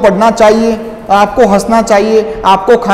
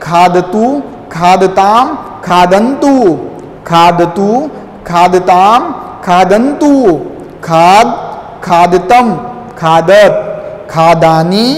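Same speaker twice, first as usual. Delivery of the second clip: recitation drill; 2 semitones lower, slower than usual. Shown as a demonstration. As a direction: chant the verb forms for pupils to repeat. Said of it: "उच्चारण कीजिए".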